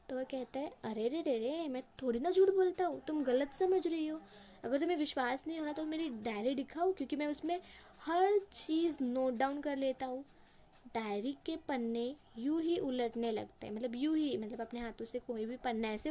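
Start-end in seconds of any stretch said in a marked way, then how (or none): 0.8-10.2 indignant master. Acted. Landlord's lie, re-enacted.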